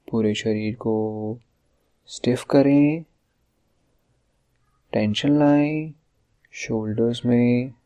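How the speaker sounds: measured instructions with long pauses, phrase endings stretched; guided relaxation exercise. Acted. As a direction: lead the listener step by step through tensing the body. Leads a body-tensing relaxation exercise.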